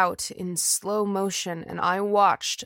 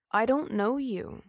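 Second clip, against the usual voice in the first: expressionless; 3 semitones higher than usual. Acted. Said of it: "Her voice was expressionless".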